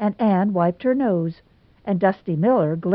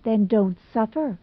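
unpitying; 3 semitones higher than usual. Acted. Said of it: "she said unpityingly".

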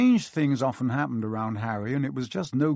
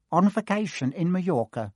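snapped; 5 semitones higher than usual. Acted. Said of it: "snapped Aunt Petunia".

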